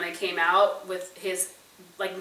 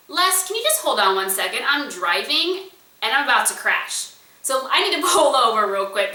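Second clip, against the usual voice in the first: flustered excitement; 4 semitones higher, 5 dB louder than usual. Retold or imitated. Star-struck on phone while driving.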